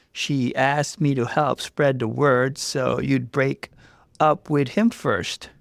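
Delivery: lightly voiced tearful coworker; tearful confession. Coworker explaining to Jess, mildly tearful. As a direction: explain through welling tears. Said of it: "Her eyes filled with tears".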